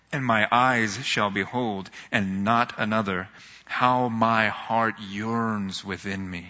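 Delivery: slow, hushed reading of Job's words; scripture reading. Acted. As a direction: read it like a prayer. Reads Job's words aloud.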